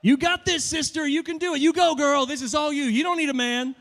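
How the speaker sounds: high, loud sassy cheer; mock girl-power cheer, high and loud; mock sassy cheerleader. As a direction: hype her up like a sassy best friend.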